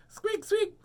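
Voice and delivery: very high little squeaks; squeaking Richard. A narrator's reading. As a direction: squeak like a tiny baby rabbit. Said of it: "says Richard".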